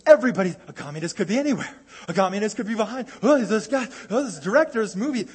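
mock panic. Mocking panicked Red Scare crowd.

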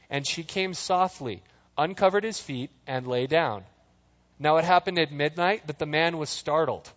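measured, even Bible reading; calm scripture read. Acted. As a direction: read the passage steadily to the congregation. Reads scripture aloud.

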